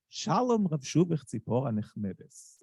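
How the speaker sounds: Hebrew verse in a rounded, sweet Ashkenazi accent. Shown as a demonstration. Reciting Bialik's verse to show the audience, Ashkenazi Hebrew accent. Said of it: "recite it in the Ashkenazi accent".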